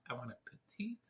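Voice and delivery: playful whisper. Pretend. Joking about his nose request to the doctor, whispered. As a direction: whisper it like a little secret.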